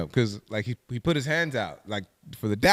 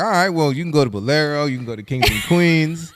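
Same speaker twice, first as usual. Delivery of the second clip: louder, brighter listing of spots with a laugh; eager suggestion; 3 semitones higher, 4 dB louder than usual. Retold or imitated. Narrator telling the stranger where to go, eager and laughing. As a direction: rattle off places, half laughing.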